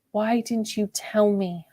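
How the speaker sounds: soft, slow hushed plea; a quiet, drawn-out question; whispered. A narrator's reading. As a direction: ask it softly and slowly, close to him. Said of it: "I whispered".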